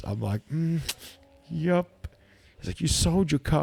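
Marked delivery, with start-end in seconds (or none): 0.5-2.1 high-pitched, awkward confirmation; mock-sheepish high voice; sheepish admission. Sheepish admission to dad, acted. 2.8-3.6 high-pitched, incredulous dad; imitated parental shock; mock disbelief. Dad's disbelief, acted.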